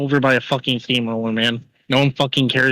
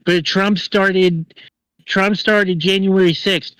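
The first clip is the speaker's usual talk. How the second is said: slow, drawn-out mock quote; mocking opponent; 5 semitones higher, slower than usual. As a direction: stretch it out to mimic the critics. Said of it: "I know what you're gonna say".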